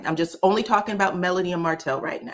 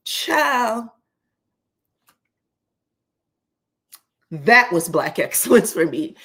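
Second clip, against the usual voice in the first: laughing; 3 semitones higher, 5 dB louder than usual. Real, not acted. Laughing delight at the quote.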